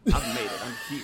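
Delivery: laughing triumphant announcement. Real, not acted. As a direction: laugh through the words.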